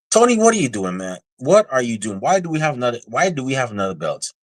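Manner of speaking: high-pitched exasperated protest; fed-up questioning of the boss. Real, not acted. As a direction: demand an explanation in disbelief, starting way up high. Scolds Tony over another title belt.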